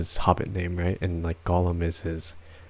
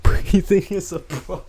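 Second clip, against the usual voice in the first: mock dramatic; 10 semitones higher, 6 dB louder than usual.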